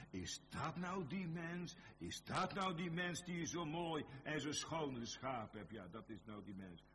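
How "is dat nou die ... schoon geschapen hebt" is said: high pleading questioner. Acted. A believer asking God, high-pitched and incredulous. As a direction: lift the voice up high and plead with disbelief.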